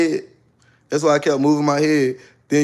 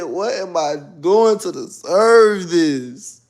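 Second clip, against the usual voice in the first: slow despair; 3 semitones higher, much slower than usual. Retold or imitated. Retold despair.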